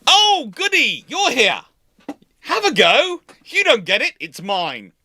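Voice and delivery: gleeful ship taunting the sloops; Walker's smug voice. Retold or imitated. Walker teasing the Black Swans, smug and gleeful. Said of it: "H M S Walker, going".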